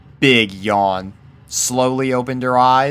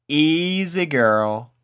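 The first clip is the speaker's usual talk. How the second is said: soothing; 5 semitones higher, much slower than usual. A narrator's reading. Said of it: "soothed Applejack".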